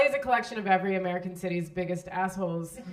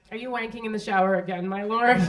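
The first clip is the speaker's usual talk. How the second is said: sarcastic; 5 dB louder than usual. Pretend. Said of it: "rife with sarcasm".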